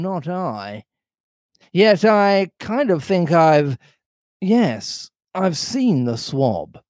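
pirate thinking aloud. Acted. Silver pretending to recall Black Dog, musing aloud. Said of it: "he ran on again aloud".

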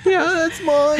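high squeaky voice. Acted. Switches to squeaky voice.

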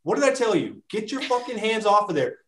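exasperated coach's reprimand, acted out; retold trainer's scolding. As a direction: tell off a client, half in jest. Trainer scolding client in anecdote.

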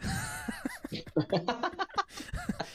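high laugh. Real, not acted. Laughing at own story.

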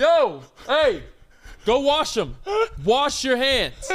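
firm commands, the last one slowed; mock order. To the corn dog worker, bossily ordering him to wash. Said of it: "I was just like".

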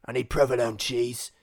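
bad gravelly vocal fry take on Jason Statham. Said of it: "Jason S-, Statham".

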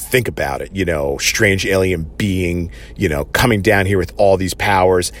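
put-on lightly growled, bitter old Batman reasoning; grim Bruce Wayne. Bruce Wayne's cold reasoning, retold.

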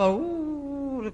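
soft, drawn-out mock wail "woo"; imitated hard crying. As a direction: act out a child's long wailing. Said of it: "哭得很厉害". (模仿小孩呜呜哭)

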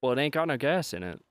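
lightly voiced movie yokel; Sling Blade impression. Guest quoting the film after being teased, Sling Blade impression. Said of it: "you were doing Sling Blade".

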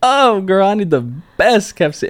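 high, loud put-on voice ordering; hammed-up demanding customer; imitating a bossy customer. Girl at the drive-through window, ordering in a loud high mock voice. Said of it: "I was like".

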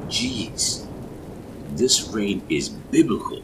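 big, high-pitched awe; loud exclamation. A narrator's reading. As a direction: exclaim it over the rain. Startled remark at the storm.

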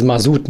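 Masoud with a soft, buzzing Z; disliked soft S. Retold or imitated. Guest cites the version he dislikes, soft S. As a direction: say Masoud with a voiced S. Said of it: "Hauptsache immer ein scharfes S".

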